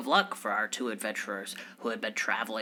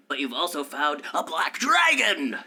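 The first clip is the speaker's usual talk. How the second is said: dramatic reveal; 4 semitones higher, 6 dB louder than usual. Acted.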